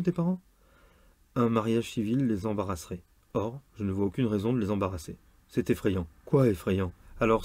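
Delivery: measured novel reading with lightly acted dialogue; story reading. A narrator's reading. Reader sharing a novel about a church wedding, narration style. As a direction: read the excerpt aloud, lightly voicing the exchanges. Reads a novel excerpt aloud.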